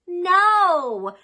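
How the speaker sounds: high, loud cry of horror; dramatic no. A narrator's reading. Girl hears she must clean her room, loud horrified cry. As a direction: shout it like doom has come.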